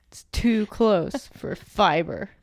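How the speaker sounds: slow, stretched-out playful admonishment; mock scolding. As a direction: join in the pretend telling-off, word by word. Plays along with mock scolding voice.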